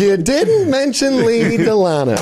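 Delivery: slow, high, pushy voice; Elaine. Retold or imitated. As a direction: lean on it like a pushy friend. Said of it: "She pushes".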